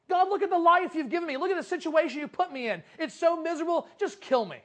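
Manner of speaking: mock-miserable griping; acted despair. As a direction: plead your misery, a touch dramatically. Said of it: "from anger to despair".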